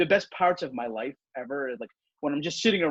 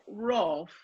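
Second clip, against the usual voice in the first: dry, higher, softer English-dog woof; sarcastic bark; 6 semitones higher, 5 dB quieter than usual. Pretend. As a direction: bark as if unimpressed. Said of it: "It's almost sarcastic".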